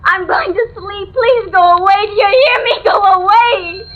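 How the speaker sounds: frightened, tearful pleas to leave; terrified woman shouting through the door at a neighbor; frantic refusal. Acted. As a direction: push her away in a panic.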